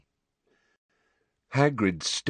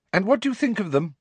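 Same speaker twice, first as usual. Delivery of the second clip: indifferent tone; 12 semitones higher, faster than usual. A narrator's reading. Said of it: "her tone indifferent".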